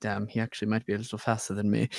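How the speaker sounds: hushed, private mutter under the breath. Voicing a character impressed by another's speed: muttering under breath. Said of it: "under my breath where no one can hear me".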